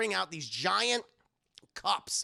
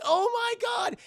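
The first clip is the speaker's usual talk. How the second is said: shrieking woman; 5 dB louder than usual. Retold or imitated. Kate shrieking at eels.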